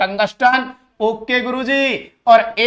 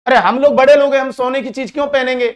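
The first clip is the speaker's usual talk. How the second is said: Salman Khan; 4 semitones higher, 3 dB louder than usual. Retold or imitated. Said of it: "कि".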